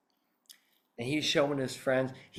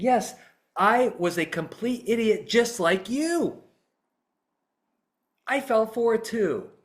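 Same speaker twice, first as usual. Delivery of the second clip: lightly voiced juror, higher and slow; agreeing juror; 5 semitones higher, slower than usual. Juror confesses to the lawyer he fell for it too, lightly acted agreement. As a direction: own up eagerly, drawing out the words.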